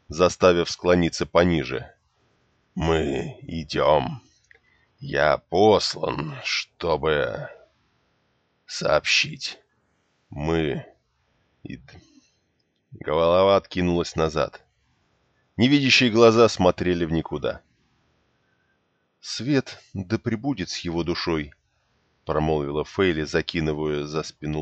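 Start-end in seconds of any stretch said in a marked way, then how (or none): 2.7-12.0 fading dying breath. Acted. Dying man's last words. 19.2-21.5 solemn, soft. Acted. Prayer over dead man.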